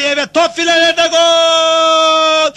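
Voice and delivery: high, loud, drawn-out goal scream; screaming football commentator. Acted. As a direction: scream GOL as long as you can.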